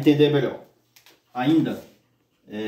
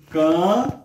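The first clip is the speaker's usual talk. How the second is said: CAN alone, louder and drawn out; syllable by syllable; 4 semitones higher, 4 dB louder than usual. Shown as a demonstration. Teacher separating the word campo, isolated syllable.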